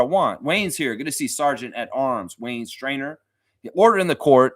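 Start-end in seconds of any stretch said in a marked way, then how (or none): 3.7-4.5 mock court bailiff. Announcing the Sergeant at Arms.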